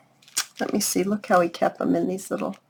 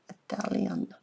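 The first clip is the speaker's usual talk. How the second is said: whispered; 10 dB quieter than usual. Real, not acted. Repeats the word under her breath.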